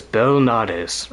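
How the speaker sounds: "Belnades" slowly as bell-NAH-dis; imitated pronunciation. Streamer guessing how Soma says it, "Belnades" as bell-NAH-dis. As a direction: stretch out "Belnades" with a long NAH. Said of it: "I think he says".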